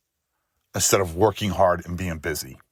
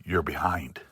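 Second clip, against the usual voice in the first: softer and lower, a hushed inner voice; quiet whisper; 4 semitones lower, 6 dB quieter than usual. Acted. The nagging inner voice at night, softer and lower. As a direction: let it slip out soft and low, like a nagging thought. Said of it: "and that quiet whisper".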